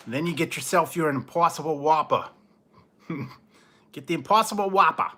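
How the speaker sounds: laughing joke. Real, not acted. Laughing, joking about Whopper.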